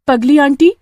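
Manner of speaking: put-on a little girl talking her down; young girl's voice. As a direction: Pooja asking the witch to spare the boy. Girl Pooja speaks to witch.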